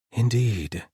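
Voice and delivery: a burst of mild exasperation; exasperated. A narrator's reading. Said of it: "he sounded exasperated".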